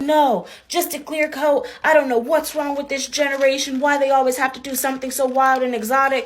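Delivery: a hint of a disapproving grandmother; mock old lady. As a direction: imitate a prim old woman. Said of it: "She was like".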